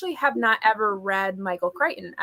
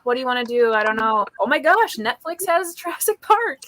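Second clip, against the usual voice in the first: bright, quick self-talk, rising to higher excitement; mock inner monologue; 4 semitones higher, 4 dB louder than usual. Host imitating herself choosing a movie, a touch excited. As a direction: play out picking a comfort movie, getting more thrilled.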